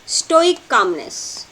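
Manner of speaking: slow, deliberate phrase for notes; slow dictation. Shown as a demonstration. Teacher dictating notes to the class, slowly. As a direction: say it slowly so students can copy it. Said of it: "Take these notes".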